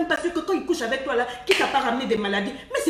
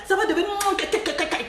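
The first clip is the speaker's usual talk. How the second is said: playful kiss sounds; 6 semitones higher than usual. Retold or imitated. Repeats the kissing sounds.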